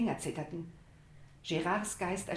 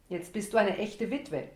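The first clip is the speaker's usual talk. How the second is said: mocking; 2 semitones higher, 4 dB louder than usual. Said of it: "spottete ich".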